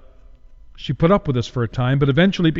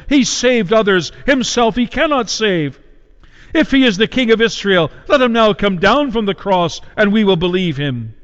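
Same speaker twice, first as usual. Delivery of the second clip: mocking taunt; 5 semitones higher than usual. Chief priests taunting Jesus on the cross, raised mocking jeer. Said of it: "mocking with the scribes".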